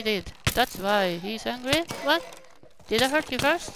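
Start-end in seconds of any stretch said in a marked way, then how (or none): none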